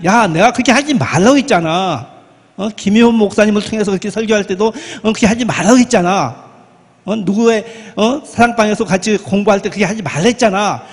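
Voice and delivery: wag a finger at the sinner; a pretend God nagging, not meant; mock scolding. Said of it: "이렇게 야단치는 분이 아니에요".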